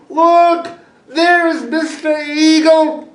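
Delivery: high, bright call pointing up; excited call. A narrator's reading. Child calling to friends, excited. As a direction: point at the sky and call out loud.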